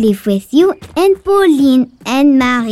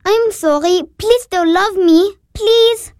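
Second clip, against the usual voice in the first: tearful pleading; 5 semitones higher than usual. Acted. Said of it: "Hush, Therese".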